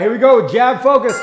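loud, sharp coach call over music; shouted command. Real, not acted. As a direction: call it out to the class. Coach starting the round.

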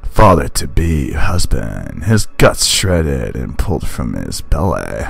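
a hint of a deep gritty narrator. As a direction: narrate it like a grim storyteller. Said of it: "for using my deep voice".

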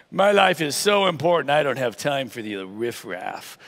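hammed-up self-important snob, slow at the end; scoff, then look down on the riffraff; pompous put-on disdain, dropping low; mock haughty. Mocks a self-important churchgoer.

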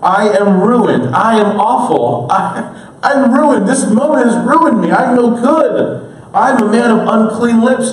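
impassioned prophet declaring himself ruined; Isaiah crying out. Acted. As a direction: cry it out, drawing out each confession. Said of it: "I cried".

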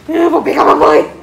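said through laughter; laughing. Shown as a demonstration. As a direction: laugh while teasing the dog. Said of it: "Vai de novo".

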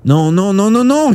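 high, loud, mounting refusal; desperate cry. A narrator's reading. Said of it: "cria Shuya".

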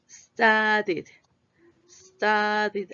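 Studied drawn out in clear beats, ending -did; syllable by syllable. Shown as a demonstration. Teacher counts syllables for students, Studied in separate beats. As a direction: sound out each syllable of Studied. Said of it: "Ahí son tres sílabas".

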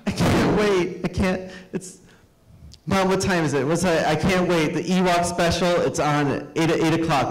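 put-on high, eager child nagging mom; boy pestering his mom about the show, excited and high; excited kid.

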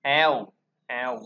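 "Ao" with the mouth stretched wide; wide-open ao. Shown as a demonstration. Teacher drilling the vowel, "Ao" said wide open. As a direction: open right up on each "ao". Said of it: "bành miệng ra".

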